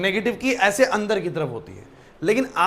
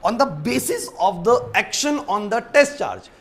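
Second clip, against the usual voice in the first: slow dictation; much slower than usual. Shown as a demonstration. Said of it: "अब हमने fields draw करना start किया".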